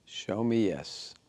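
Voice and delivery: slow, quiet command; softly and slowly ask; hushed slow request. Shown as a demonstration. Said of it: "hold it still and say".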